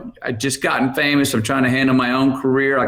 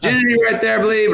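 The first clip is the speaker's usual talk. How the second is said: imitating mom; 10 semitones higher, much faster than usual. Mom voiced giving house tour.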